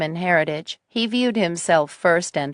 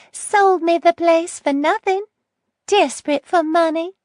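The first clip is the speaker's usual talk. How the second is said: put-on bitter old lady voice; 12 semitones higher, 4 dB louder than usual.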